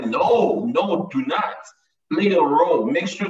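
loud preacher's call to act; urgent exhortation. Real, not acted. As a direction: rise up and push them to move. Preacher urging congregation to act.

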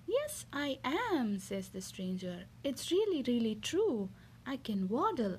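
lively picture-book reading voice; reading to children. Acted. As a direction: read it like a bedtime story for a little one. Mother reads picture book aloud.

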